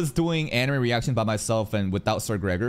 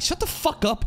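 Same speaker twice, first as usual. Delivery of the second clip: mock yell at himself. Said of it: "I'm like, yelling and shouting".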